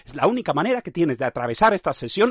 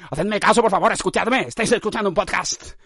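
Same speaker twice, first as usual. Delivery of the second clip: insistent plea; 3 semitones higher than usual. Pretend. Begs listeners loudly to listen.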